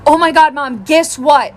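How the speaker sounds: breathless-to-tell kid, lightly voiced; excited daughter. Daughter coming home to tell mom news, excited. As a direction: act out a kid bursting with news. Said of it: "she is so excited".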